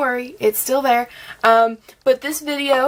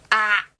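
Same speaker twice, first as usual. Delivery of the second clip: excited squeal. Real, not acted. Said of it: "I don't even know what that sound was".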